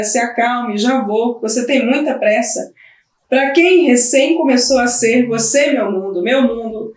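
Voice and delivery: lightly voiced mother, softening toward her baby; tender mother. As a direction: speak gently to your tiny child.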